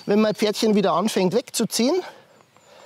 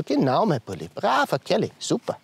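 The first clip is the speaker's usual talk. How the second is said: tender praise. Real, not acted. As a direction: coo a reward to the horse. Praising the horse.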